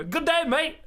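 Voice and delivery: high-pitched mock Australian accent; bad Australian accent. Streamer imitating the Aussie he expected, bad Australian accent. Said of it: "I can't do accents".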